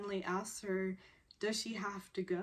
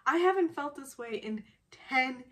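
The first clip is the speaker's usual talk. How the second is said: loud, high, exasperated outburst; acted-out frustration; 6 semitones higher, 7 dB louder than usual. Frustrated man told to be calm, exasperated outburst. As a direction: protest loudly, stretching the key words. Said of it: "He's just frustrated at this moment".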